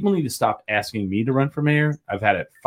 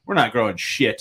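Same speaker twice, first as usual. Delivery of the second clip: laughing Holly quote; 3 semitones lower than usual. Retold or imitated. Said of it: "And Holly's like".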